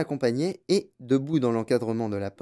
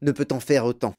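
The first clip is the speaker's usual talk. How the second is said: enthusiastic grandfather; 6 semitones higher than usual. Acted. Reader voices grandfather's eager boasting.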